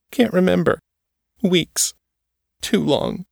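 put-on high, small scared girl's voice; a haunted girl answering in fear; Trisha, frightened girl. A narrator's reading.

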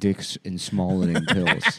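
slow, laughing punchline. Real, not acted. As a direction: drag the punchline out through a laugh.

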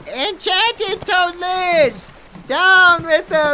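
slow calling out. Acted. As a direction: call out slowly against the gale. Trapper calls out in storm.

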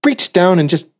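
high, gleeful comic bit; excited retelling, pitched well up; Jim Jeffries. Retold or imitated. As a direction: act out a comedian's eager scheme, rising to a whoop. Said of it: "he's just like".

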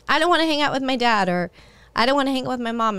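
fast, lightly mimicked teen whine; sulky teenager. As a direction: toss it off like a moody teen, but only a hint. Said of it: "I remember when I was a teenager".

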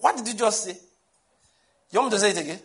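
high-pitched challenge of a shocked listener; mock-incredulous question, pitched well up; acted disbelief. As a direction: play the listener who can't believe it. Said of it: "some people are like".

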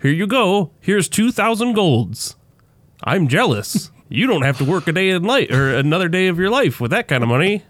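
a hint of a doddering old man. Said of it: "taking it to some old man".

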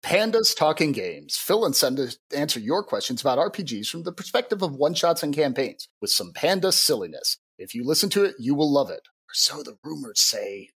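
light podcast promo delivery; promo read. Acted. Plugging a games podcast to listeners, lightly performed promo read. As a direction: pitch the show, then tail off into a wry tag. Reads promo for another show.

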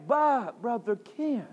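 a hint of a shy, hesitant member making excuses; lightly voiced objector; reluctant churchgoer telling the preacher why they cannot praise; imitating a reluctant churchgoer. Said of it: "someone might say".

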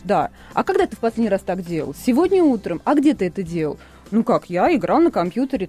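ordinary delivery

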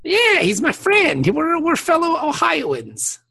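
high, slow, hammed-up boast; teasing pride at a friend; mock proud. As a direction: puff up about being from Ohio. Mock pride about shared state.

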